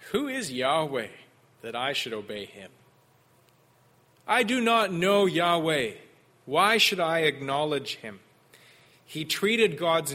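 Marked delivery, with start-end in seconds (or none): 0.1-8.2 impertinent. Retold or imitated. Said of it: "Pharaoh's impertinent question".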